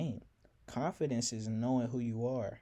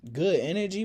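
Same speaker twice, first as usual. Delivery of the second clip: mocking laugh; 7 semitones higher, 7 dB louder than usual. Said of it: "laughing so hard".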